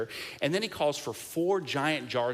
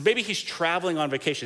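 mocking taunt; 5 semitones higher, 4 dB louder than usual. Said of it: "He makes fun of them".

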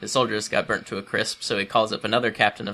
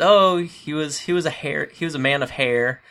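eager messenger; 6 semitones higher, 4 dB louder than usual. Retold or imitated. Messenger describing Elijah.

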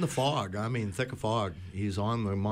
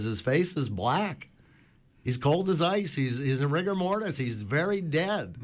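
exasperated; 5 semitones higher than usual. Retold or imitated. Fishing captain, fed up, tells the Coast Guard: exasperated. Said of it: "the guy was just exasperated".

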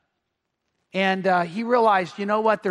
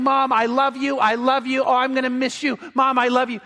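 higher, mild mock yell; retold yelling; 3 semitones higher than usual. Son yelling goodbye to mom on the boat, mildly raised retold calling. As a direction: call it out urgently without a full shout. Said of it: "he's yelling".

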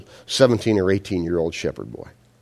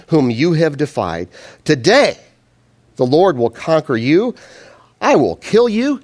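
defiant proclamation; 6 semitones higher, 4 dB louder than usual. Retold or imitated. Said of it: "David replied to the Philistine".

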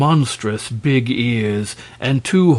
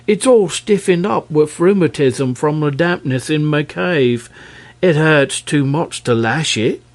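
dragon voice; 4 semitones higher than usual. Acted. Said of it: "replied the dragon".

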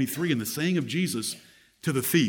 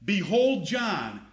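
tender; 5 semitones higher, slower than usual. Shown as a demonstration. Preacher shows the true tender sense to Mary. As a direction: say it gently, as a caring son.

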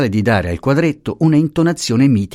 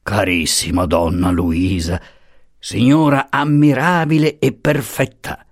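effusive gushing. Acted. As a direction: pour on exaggerated affection. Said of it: "effusioni e profluvi di sentimento".

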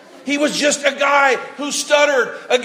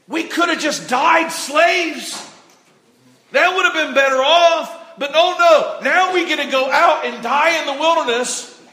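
mock complaint; 3 semitones higher than usual. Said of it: "They said, they said".

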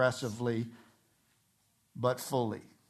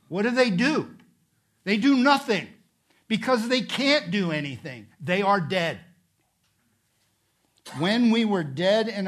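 forceful sermon delivery with punched key words; emphatic preaching; 2 semitones higher, 5 dB louder than usual. Real, not acted. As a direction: preach it out to the congregation.

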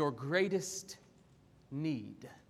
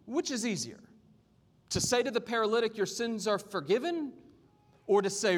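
measured, expressive Bible reading; scripture reading. Acted. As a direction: read scripture aloud with deliberate emphasis. Reads scripture to congregation.

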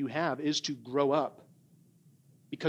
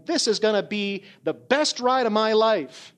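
recalled thrill, pitched higher; acted-out excitement; 4 semitones higher, 4 dB louder than usual. Preacher recalling himself atop a giant wave, mock excitement.

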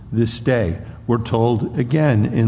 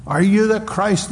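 higher, mocking question; jeering council; 5 semitones higher than usual. The council mocking the beaten Jesus. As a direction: needle him with a raised taunting voice. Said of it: "they continued saying".

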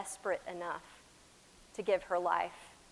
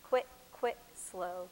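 put-on broad singsong kids theatre; 3 semitones lower, slower than usual. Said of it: "just whisper to yourself under your breath the names of the steps".

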